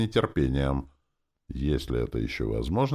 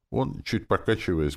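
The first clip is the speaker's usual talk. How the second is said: usual speaking voice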